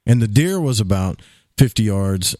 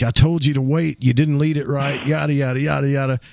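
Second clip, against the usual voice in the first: retold angry scolding; 3 semitones higher than usual. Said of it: "he was so mad".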